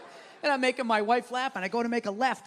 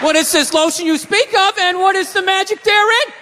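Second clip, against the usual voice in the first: rising, lightly hammed-up wonder; mock mystified audience member; 5 semitones higher, 12 dB louder than usual. Comedian voicing audience ignorant of lotion, mock mystified. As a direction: ask like someone baffled by a marvel. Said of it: "you were sitting there like".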